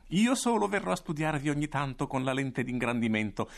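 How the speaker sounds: voce acuta, esaltata e beffarda; cattivo trionfante. Acted. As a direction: gode della sua trappola. Il cattivo svela il piano. (il direttore chiude i bambini, trionfante e beffardo)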